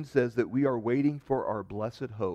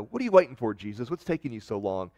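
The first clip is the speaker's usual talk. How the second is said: disappointed mocking. Preacher imitating people tired of waiting for Jesus, mocking complaint. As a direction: imitate a disappointed scoffer, punching the opening. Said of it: "disappointed, mocking, like, like, you know".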